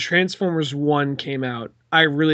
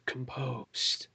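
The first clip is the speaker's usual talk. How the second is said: much softer, held-back self-calming; composing oneself; 4 semitones lower, 13 dB quieter, slower than usual. Retold or imitated. Director stifling laughter before stepping off set. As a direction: hush yourself to hold in a laugh. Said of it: "kinda like".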